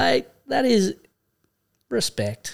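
high and excited, dropping down on respect; a retold excited thank-you to the shop fella; excited retelling. Retells excited reply to shopkeeper.

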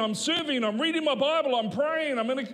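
loud, high, desperate pleading; anguished complaint. Acted. Believer complaining to God.

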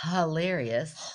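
slow, drawn-out Australian "Hilarious"; attempted Australian accent. Shown as a demonstration. Checking with co-host how Australians say it, attempted accent. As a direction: stretch it into a would-be Australian accent. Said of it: "Is that what they".

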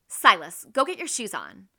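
loud, sharp order on the name; impatient, angry. Shown as a demonstration. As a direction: mom ordering her son, dissatisfied. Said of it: "I'm impatient, that I'm angry".

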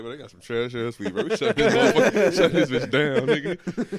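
bust in like a rowdy inspector; rowdy bro shout. Retold or imitated. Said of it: "He was like".

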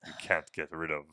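a hint of the Babadook creeping in the dark. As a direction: intone it like the creature from the book. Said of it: "me doing the voice from time to time".

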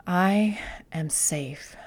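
whispered, very slow and soft; nice and slow whispered mantra. Shown as a demonstration. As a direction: breathe the words out slowly. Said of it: "Say it nice and slow".

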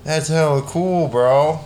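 slow, drawn-out West Coast dude; West Coast bro. Pretend. Co-host proving his voice is real, slow West Coast accent. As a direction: stretch it like a laid-back West Coast bro. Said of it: "guys in the West Coast that do sound like that".

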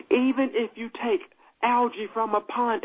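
deliberate, measured restart; slowed down. Real, not acted. Preacher restarts the algae example, slowed down. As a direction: take it phrase by phrase, pausing. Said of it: "Let me slow down".

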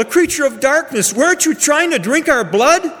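high, indignant questioning; alarmed accusation in a high register; accusing child. A narrator's reading. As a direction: challenge the bat, pitched well up. Frightened child accuses the bat.

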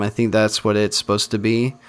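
ordinary delivery, nothing marked

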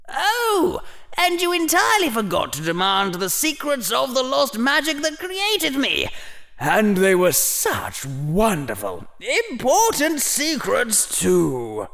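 very high, fast, mocking old hat; gloating hat voice. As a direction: needle him with sly glee.

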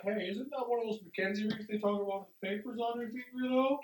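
sneaky crowd gossip. Pretend. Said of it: "nudge the guy next to me and be like".

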